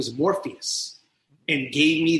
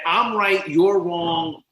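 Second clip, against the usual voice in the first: arrogant; 2 semitones higher, 4 dB louder, much slower than usual. Retold or imitated. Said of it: "arrogant alcoholic".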